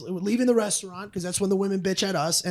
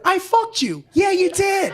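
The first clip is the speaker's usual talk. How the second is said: imagined confession; 8 semitones higher, slower than usual. Retold or imitated. Husband imagining wife and ex admitting the affair, mocking high voices. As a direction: ham up the paranoid imagined dialogue. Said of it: "in my mind, I hear".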